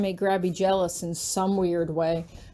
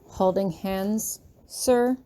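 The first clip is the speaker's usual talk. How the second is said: sarcastic; much slower than usual. Acted. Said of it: "I ask sarcastically".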